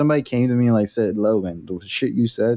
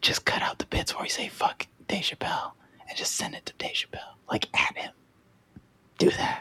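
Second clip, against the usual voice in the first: breathy, soft, hushed whisper, barely voiced; 9 semitones higher, 10 dB quieter than usual. Urging the show's listeners to share the show, whispering. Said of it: "Why are you whispering?".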